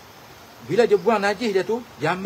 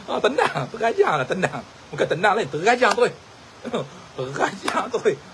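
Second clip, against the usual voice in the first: amused, laughter running through the words; real giggling storyteller; laughing. Real, not acted. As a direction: get the words out between laughs. Laughs over his own kick story.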